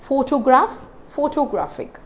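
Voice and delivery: "photograph, photographic", PHO stressed in both; careful model "photograph, photographic", weight up front; stress on first syllable. Shown as a demonstration. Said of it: "I stressed on".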